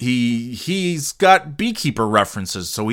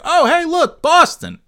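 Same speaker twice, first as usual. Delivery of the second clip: much higher and louder, delighted surprise; excited recognition; 5 dB louder than usual. Retold or imitated. Viewer recognizing Boston in the movie, high excited surprise. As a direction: squeal it like spotting home on screen. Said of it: "I remember thinking like".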